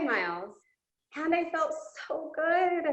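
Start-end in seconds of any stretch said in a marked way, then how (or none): 1.1-2.9 excited. Real, not acted. First of repeated claim.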